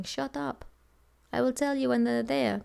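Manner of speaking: a mild mock snap to shut him up; cranky Shrek. Shrek tells Donkey to shut up, mildly cranky. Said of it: "Shrek getting cranky and saying".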